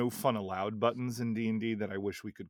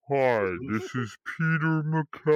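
slow recording voice; 3 semitones higher, 5 dB louder than usual. Pretend. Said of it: "It's the slow recording".

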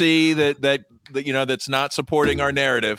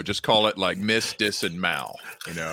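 faint, far from the mic; low mic volume, barely heard; barely audible; 7 semitones lower, 8 dB quieter than usual. Real, not acted. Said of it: "You sound really faint".

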